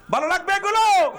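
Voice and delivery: high, loud cry at the crowd; indignant challenge. Real, not acted. Preacher challenging people who walk out, indignant and loud. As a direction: throw it out as a shouted challenge.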